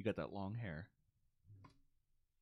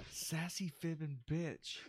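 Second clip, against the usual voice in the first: whispered through laughter; laughing whisper; 4 semitones higher, slower than usual. Real, not acted. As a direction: breathe it out while giggling. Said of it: "repeats answer in whisper".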